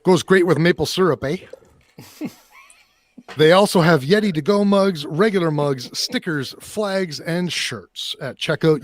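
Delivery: light mock Canadian accent with eh; hammed-up Canadian ad read. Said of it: "we'll just do a, a Canadian".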